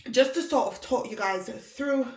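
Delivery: breathless, catching her breath between words. Real, not acted. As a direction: talk while still winded, puffing out a whew. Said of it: "I'm out of breath".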